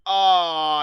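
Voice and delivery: sharp, loud yelp of sudden pain; real ow of pain, high and loud. Real, not acted. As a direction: cry out after biting your cheek hard. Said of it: "I bit the inside of my cheek".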